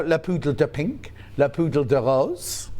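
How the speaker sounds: slow mock French, Yorkshire accent; drawn-out playful French words, Yorkshire accent; hammed-up French, Yorkshire accent. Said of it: "speaks French with a Yorkshire accent".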